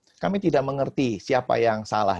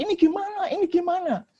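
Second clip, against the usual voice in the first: very high-pitched, louder mock panic; imitated panicked cries; 4 dB louder than usual. Preacher imitating boat passengers as it tips, panicked high cries. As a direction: act out passengers crying out in alarm. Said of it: "mereka teriak-teriak".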